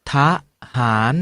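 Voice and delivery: ทะ, then หาร, split and slow; syllable by syllable. Shown as a demonstration. Teacher leads class sounding out ทะ ... หาร together. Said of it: "มาออกเสียงคำเหล่านี้พร้อมๆกัน".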